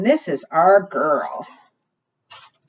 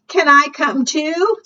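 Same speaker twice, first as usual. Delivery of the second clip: much higher, eager critter voice; hopeful beaver; 8 semitones higher, 3 dB louder, slower than usual. Acted. Beaver asking the girl to come along, high and eager. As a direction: plead like a small animal.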